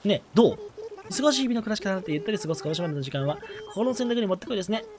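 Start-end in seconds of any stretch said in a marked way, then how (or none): 1.1-4.8 a lightly voiced genteel girl, reading her lines; polite young lady. Reading the villager Doremi's polite greeting, lightly voiced lady. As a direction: read it like a refined little miss. Reads villager dialogue aloud.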